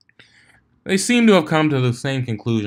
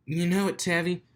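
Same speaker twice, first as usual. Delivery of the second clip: DJ teasing; 7 semitones higher than usual. Acted. DJ answering Octavia, teasing. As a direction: rib her friend.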